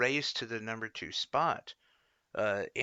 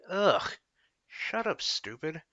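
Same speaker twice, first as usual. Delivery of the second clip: higher, fed-up groan of annoyance; exasperated; 6 semitones higher, 4 dB louder, slower than usual. Real, not acted. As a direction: snap it out, utterly done with her. Venting at Klobuchar.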